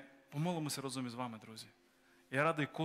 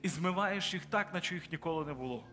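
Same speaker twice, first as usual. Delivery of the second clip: preaching prayer; 2 semitones higher than usual. Acted. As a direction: pray over them with growing force. Pastor prays over converts.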